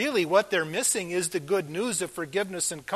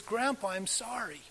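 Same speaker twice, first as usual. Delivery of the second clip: put-on a hushed, gentle child's apology, softly; soft imitated whisper; 4 semitones higher, 7 dB quieter than usual. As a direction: say "Grandpa, I'm sorry" quietly like a shy boy. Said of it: "he whispers".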